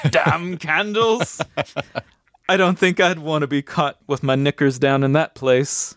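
lightly voiced cabbie with a touch of concern; concerned cab driver. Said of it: "with genuine concern in his voice".

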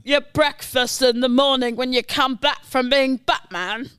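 lightly voiced cockney butler; Michael Caine. Butler offering Batman breakfast, light cockney impression. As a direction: carry on as Batman's attentive butler. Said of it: "Michael Caine".

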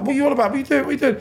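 retold startled shouting at his screaming partner. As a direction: yell it back, panicked and confused. Retold shouting back at screaming girlfriend.

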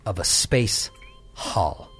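game master narration. Acted. GM narrates opening scene.

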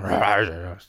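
low mock growl; savage growl. Host mocking wild mountain people of Wicklow, savage growl.

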